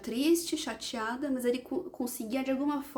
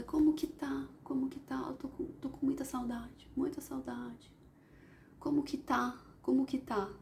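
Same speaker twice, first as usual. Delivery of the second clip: soft, quiet, pleading questions; 5 dB quieter than usual. Retold or imitated. Telling a spirit she misses someone, soft quiet pleading. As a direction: beg softly, missing someone. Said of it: "perguntando, questionando e suplicando".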